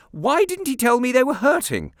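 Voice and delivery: high, loud, tart question; sharp. Acted. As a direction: snap back with asperity. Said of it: "asked the aunt with some asperity".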